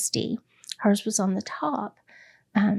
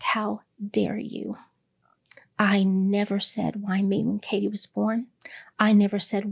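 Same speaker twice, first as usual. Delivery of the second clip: hushed, whispered anger rather than shouting; retold anger at God. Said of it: "and I was so mad".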